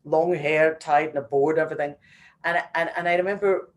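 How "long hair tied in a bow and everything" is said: gushing defence. Retold or imitated. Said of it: "I was like".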